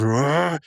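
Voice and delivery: drawn-out mock attack cry; slow-motion roar. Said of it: "puts them together and he goes".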